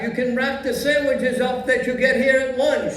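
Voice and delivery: put-on old Yiddish grandpa accent; a creaky old Jewish man, kvetching.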